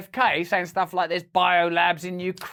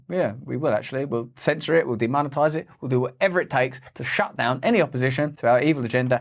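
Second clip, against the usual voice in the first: mock villain; 6 semitones lower, faster than usual. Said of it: "And them saying".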